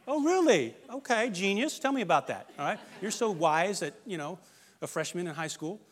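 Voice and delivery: sarcastic parent. Retold or imitated. Sarcastic parent mocks complaining teen.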